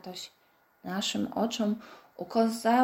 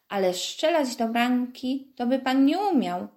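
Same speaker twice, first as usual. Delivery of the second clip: contemptuous; 4 semitones higher, 4 dB louder than usual. Acted. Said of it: "stwierdził Wojtek pogardliwie".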